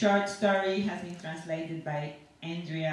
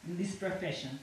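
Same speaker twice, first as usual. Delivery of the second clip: a lightly voiced dentist with halting English; non-native dentist. Dentist chatting to his patient in the chair, lightly voiced non-native English. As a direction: chat away to the patient as a foreign dentist, only a hint of accent. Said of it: "a dentist who doesn't speak English very well".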